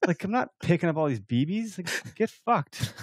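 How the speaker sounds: retold defiant refusal; mildly exasperated, dragging out the final insult; upset. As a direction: act out fed-up refusal. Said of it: "I was so upset".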